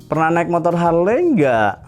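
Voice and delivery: loud, high, drawn-out boastful taunt; very arrogant. Retold or imitated. Harley rider taunting a Vespa rider, very arrogant. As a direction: brag it slowly and haughtily. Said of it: "dengan nada yang sangat-sangat sombong".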